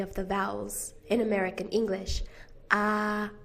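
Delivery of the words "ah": "Ah" with the mouth as open as possible; most open vowel. Shown as a demonstration. Teacher demonstrating American English vowels, wide-open ah. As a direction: open right up and hold "Ah". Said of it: "it's the most open".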